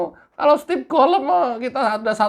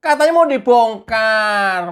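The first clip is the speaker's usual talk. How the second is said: normal talking voice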